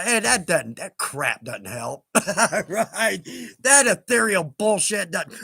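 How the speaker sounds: mildly worked up, with laughter breaking in; a little excited. Real, not acted. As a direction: get a bit carried away grumbling. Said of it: "I got a little excited there".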